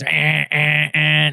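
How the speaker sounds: mimicked repeating crash alert; imitated phone alarm. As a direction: honk out short alert noises. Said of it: "Like my phone's".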